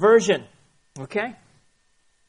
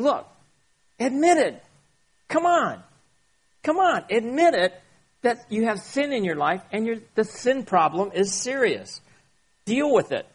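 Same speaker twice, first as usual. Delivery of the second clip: God urging; 5 semitones higher than usual. Retold or imitated. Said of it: "And so God is saying".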